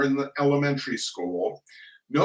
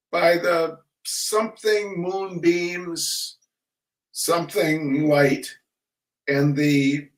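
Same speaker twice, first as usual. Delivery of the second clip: slow, sing-song schoolroom recital with gaps; school poem recitation; 3 semitones higher, slower than usual. Acted. Reciting Sir John Moore from memory, sing-song. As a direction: recite it like a dutiful pupil.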